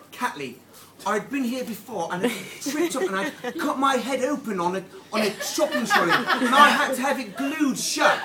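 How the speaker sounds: a deliberately bad imitation of a southern English accent, laughing through it; best man mocking the groom's southern English accent at a wedding; terrible accent. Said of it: "I know that's a terrible accent".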